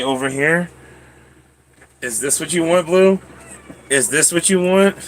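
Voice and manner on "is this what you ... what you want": lifted, sing-song coo to a dog; pet talk. Real, not acted. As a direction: coax the dog gently, voice up. Cooing to dog Blue.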